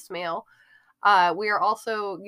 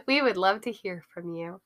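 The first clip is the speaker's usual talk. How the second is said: polite helpful service voice; customer service voice. Acted. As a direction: sound like a friendly phone rep. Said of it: "in my best customer service voice".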